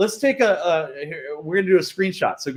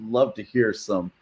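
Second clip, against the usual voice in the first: slow, lower introducer voice; host introducing the guest poet, slow and low; announcer intro; 10 semitones lower, 4 dB quieter, slower than usual. Pretend. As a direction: announce him to the crowd like an MC. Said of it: "a poetic voice of Sekou Andrews".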